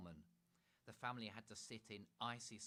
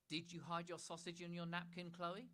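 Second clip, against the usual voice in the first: high, loud, posh demanding mother; 9 semitones higher, 6 dB louder than usual. Acted. Mother catching Chloe hiding sausage, high demanding voice. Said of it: "demanded Mother".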